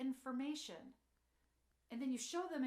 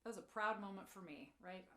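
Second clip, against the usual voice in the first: sarcastic; 3 semitones lower than usual. Real, not acted. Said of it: "Being sarcastic".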